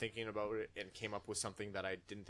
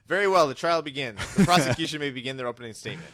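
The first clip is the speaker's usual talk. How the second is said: loud, higher, hammed-up magistrate; mock judge; 5 semitones higher, 14 dB louder than usual. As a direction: bellow it fast like a pompous judge. Playing magistrate in mock trial.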